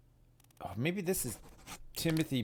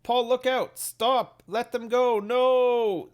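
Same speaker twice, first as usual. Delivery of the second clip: much higher, louder imitated woman's cries; imitating the woman; 11 semitones higher, 6 dB louder, slower than usual. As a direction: cry out like the woman warning Paul. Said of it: "said by the woman".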